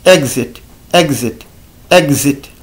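exit with gz sound; English word exit repeated. Shown as a demonstration. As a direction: say exit stressing the gz.

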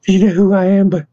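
high-pitched, astonished stammer; faint with shock. A narrator's reading. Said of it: "Henry looked faint".

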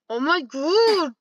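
drawn-out "oh my god"; exclamation. Retold or imitated. Recounting what he said, dramatic exclamation. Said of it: "that's what I basically said".

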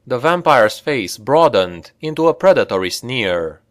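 usual speaking voice

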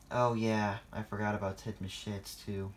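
sighing. Acted. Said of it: "sighed Thomas".

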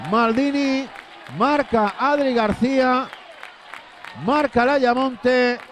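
excited goal call. Real, not acted. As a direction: call the equaliser with lift. Equalising goal called.

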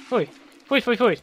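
high loud cries of disgust; loud grossed-out yuck. Real, not acted. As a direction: recoil in revulsion. Disgusted by monster.

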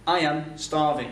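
dis-le lentement, mot par mot; modèle à répéter, posément; lent et articulé. Shown as a demonstration. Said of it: "Si tu dis I am starving, vas-y". (phrase modèle lente pour l'élève)

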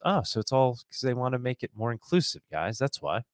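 mock realization, feigning belief; sarcastic. Real, not acted. Host scoffing at the inclusion excuse, sarcastic. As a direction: play innocent, as if convinced. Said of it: "I'm being sarcastic".

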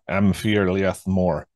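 Am Fir Liath Mor spelled out slowly in careful Gaelic; a modest stab at Gaelic Am Fir Liath Mor; Gaelic attempt. Shown as a demonstration. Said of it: "my Scottish is, is pretty bad".

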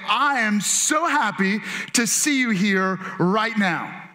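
slow, deliberate, friendly greeting; glad greeting. Shown as a demonstration. Pastor showing congregation what to say to a neighbor, glad greeting. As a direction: say it slowly like you mean it. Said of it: "lean over and say".

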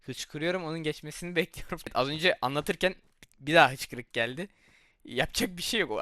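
hiccuping between words; with hiccups. Real, not acted. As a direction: talk through a bout of hiccups. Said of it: "hıçkırık da tuttu sürekli".

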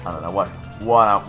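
usual speaking voice

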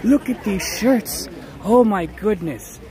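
high, giggly gush over tiny shirts; gushing delight. Real, not acted. Streamer cooing over tiny shirts, high and giggly. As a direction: squeal a little at how cute they are.

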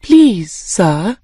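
very polite request. Acted. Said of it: "she said very politely".

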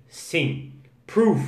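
ordinary talk, nothing marked

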